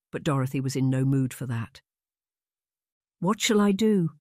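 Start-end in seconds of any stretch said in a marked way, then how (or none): 3.2-4.2 high, louder desperate question; frantic plea. A narrator's reading. Upset sister pacing the room, frantic high plea. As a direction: cry out helplessly.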